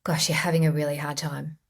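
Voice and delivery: gentle self-talk. Shown as a demonstration. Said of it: "place my hand on my heart and say".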